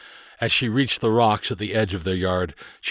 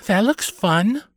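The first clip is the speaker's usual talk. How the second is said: put-on high, bright-pitched kid's thought, louder; wishful little girl; 11 semitones higher, 4 dB louder, slower than usual. A narrator's reading. Carley watches the boys play pirates, wistfully eager. Girl's excited thought in story.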